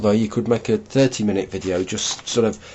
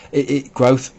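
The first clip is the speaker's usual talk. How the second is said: numb from the dentist. Real, not acted. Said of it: "that's my frozen mouth again".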